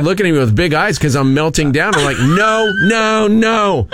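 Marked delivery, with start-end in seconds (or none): 2.2-3.9 higher, mildly yelled refusal; refusing the metro police, mild mock yell. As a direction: repeat no like a retold yell. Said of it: "I keep yelling at them".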